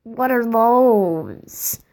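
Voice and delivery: drawn-out What are those; slow meme voice. Retold or imitated. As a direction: stretch it out slowly like a meme. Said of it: "he made a What Are Those video".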